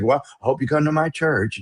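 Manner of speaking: half-hearted mock invite; unenthusiastic invitation. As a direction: give a mildly listless, acted invitation. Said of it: "if you're not enthusiastic".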